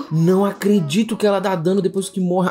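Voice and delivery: loud, high protest; outraged disbelief. Real, not acted. Gamer hurt by a dead boss, loud incredulous cry. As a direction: cry out at the unfairness.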